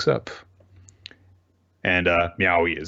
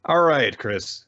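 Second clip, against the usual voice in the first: slow, drawn-out, louder announcer call; stretched-out shouted intro; hype announcer shout; 5 semitones higher, 3 dB louder, much slower than usual. Acted. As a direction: boom it out like a show host. Announcing the segment, hamming.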